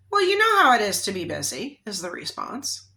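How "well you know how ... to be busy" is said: dismissive brush-off. Retold or imitated. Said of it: "a little off, for her to say that like that".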